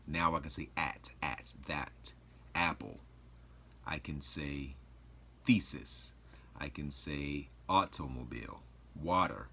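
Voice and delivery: "at", "that", "apple", "thesis", "automobile", "water" with every syllable crisp; over enunciating. Shown as a demonstration. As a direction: spell out each sound of "automobile". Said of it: "I can now pronunciate every syllable".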